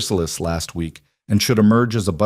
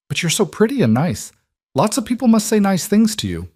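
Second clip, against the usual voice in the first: put-on high, bright child voice; little girl voice; 13 semitones higher than usual. A narrator's reading. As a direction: sound like an earnest little girl. Child Emma's dialogue.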